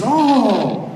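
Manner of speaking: lightly voiced taunting devil, surprised; a hint of the devil sneering back; half-hearted devil voice; mock devil. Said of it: "He says".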